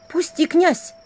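высоко, в испуге; вырвись испуганно. A narrator's reading. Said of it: "прошептала она". (испуганно, высоким голосом)

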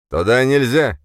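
loud stern bark; guard's shout. A narrator's reading. Guard blocking the hero, a sharp loud order.

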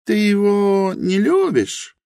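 put-on high, earnest young woman's voice, slow at first; Helena's voice. A narrator's reading. Helena admits her ignorance to Rosa, high and earnest. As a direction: confess humbly in Helena's high voice.

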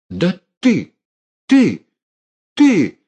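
very high, loud, choking splutter; sputtering rage. Acted. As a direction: choke on the words. Uncle chokes with rage.

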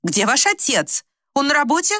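lightly voiced, somewhat high and lost; confused old woman. Confused old woman asking for her husband, lightly voiced. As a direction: ask as if from long ago.

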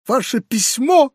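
high shriek of outrage. A narrator's reading. Foma shrieks at the uncle, high-pitched. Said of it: "взвизгнул Фома".

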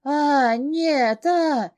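high, loud shriek of no; bursting scream. Acted. Heroine screams as he unbuckles his belt. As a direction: explode into a scream. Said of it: "и тут я просто взрываюсь криком".

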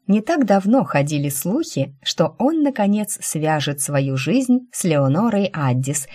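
mischievous, playful gossip reading; teasing read. Acted. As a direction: read it out with a sly grin. Rina reads gossip teasingly.

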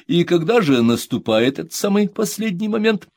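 lightly voiced stepfather, ironic question; probing with amused irony; Andrey. Andrey questioning the son, ironic.

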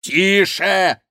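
shouted hush. Acted. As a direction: cut him off. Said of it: "крикнул Шико".

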